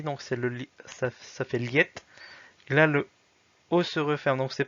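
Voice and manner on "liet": "liet" stressed on LIE, weak ending; stress on first part. Shown as a demonstration. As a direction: lean on the start of "liet". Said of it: "c'est la première partie".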